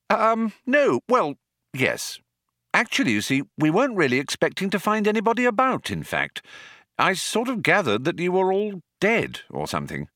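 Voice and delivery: put-on high, fast, flustered young man; flustered Arthur. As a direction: babble it out nervously.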